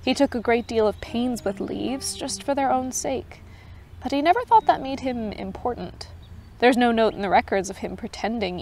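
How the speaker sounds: even storytelling read; story narration. A narrator's reading. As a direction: read the tale aloud for listeners. Reads Tolkien story aloud.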